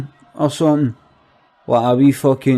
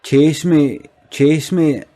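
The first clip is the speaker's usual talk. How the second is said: a hint of a teasing, camp call; camp gay man; 3 semitones higher, slower than usual. Camp man being chased outside the social, lightly imitated. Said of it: "Gay guys pure like that".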